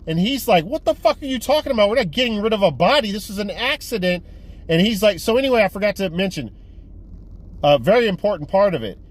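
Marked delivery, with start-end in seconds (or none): 0.6-4.2 outraged protest. Retold or imitated. Guy retold refusing, outraged.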